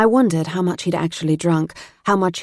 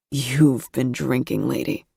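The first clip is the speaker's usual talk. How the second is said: put-on teasing boy voice; 4 semitones lower, slower than usual. A narrator's reading. Boy teasing tipsy girlfriend.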